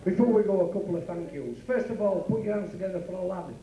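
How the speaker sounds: a lightly voiced stage announcer wrapping up the night; club compère sign-off. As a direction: thank the crowd like a working men's club host.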